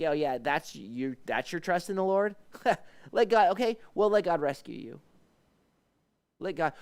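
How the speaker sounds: high, scoffing taunt with a laugh; mock the believer's trust with a sneer. Scoffers taunting the psalmist's trust in God, mocking with a laugh. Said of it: "they're like".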